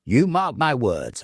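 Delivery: slow, sharp retort; with asperity. A narrator's reading. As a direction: throw her words back at her, cutting. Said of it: "I retorted with asperity".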